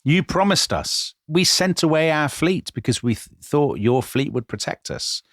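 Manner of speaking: pleading, voice high and strained; begging an ally, almost crying; near tears. Retold or imitated. Ambassador begging the Foreign Secretary, near tears. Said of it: "he is virtually in tears".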